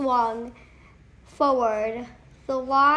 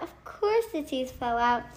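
matter-of-fact; 3 dB quieter, faster than usual. Acted. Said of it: "I told her".

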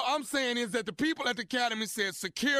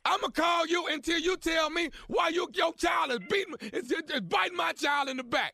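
raised, higher hammed-up yell; angry yelling; 4 semitones higher than usual. Prank caller yelling at the mother over the bite, angry yell. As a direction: push the threat out at volume.

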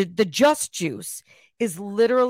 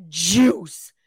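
breathy savoring whisper; 3 semitones lower, 5 dB louder than usual. Acted. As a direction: whisper it like a revelation. Savoring a cocktail sip on camera.

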